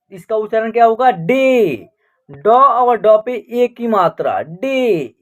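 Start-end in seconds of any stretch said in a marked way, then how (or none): 4.4-5.1 "डे" drawn out on a steady 'ay'; teacher's model "डे", A sounded as 'ay'; long 'ay' sound. Shown as a demonstration. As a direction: hold the vowel in "डे", dropping in pitch. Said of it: "ए का उच्चारण ए हो रहा".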